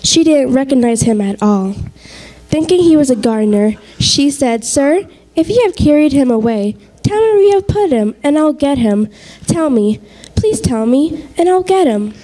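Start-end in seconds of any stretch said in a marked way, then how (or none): 4.6-12.1 pleading Mary. Acted.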